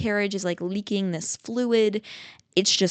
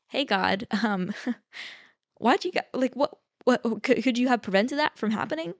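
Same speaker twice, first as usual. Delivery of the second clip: mock complaint to God; 4 semitones higher than usual. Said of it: "easy to be like".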